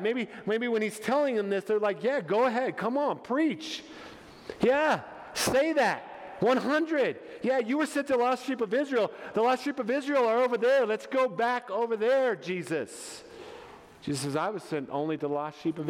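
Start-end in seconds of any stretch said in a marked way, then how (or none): 2.0-13.2 higher-pitched, egging him on; eager agreement. Acted. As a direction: cheer the preacher on. Acts disciples egging Jesus on.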